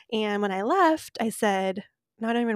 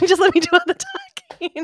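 laughing through it, higher and louder; half laughing the offer again; 9 semitones higher, 8 dB louder than usual. Real, not acted. Friend repeats the offer to do the talking, laughing.

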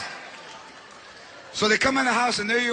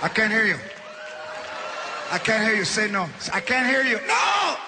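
taunting aunt. Retold or imitated. Aunt taunting, demanding he yell.

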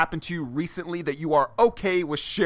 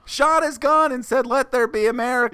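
higher goofy know-nothing voice; playing dumb; 5 semitones higher than usual. Host making up fake history, goofy higher voice. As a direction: keep up the clueless fool, pitched up. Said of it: "I'm kind of dumb and dim-witted".

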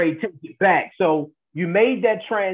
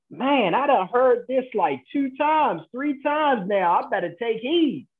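amazed inner voice; 5 semitones higher than usual. Retold or imitated. Voicing someone getting a repeated sign.

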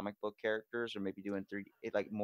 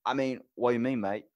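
louder mock Australian; Australian accent; 2 semitones higher, 7 dB louder than usual. Shown as a demonstration. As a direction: slip into a thick Aussie accent. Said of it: "especially with Australian people".

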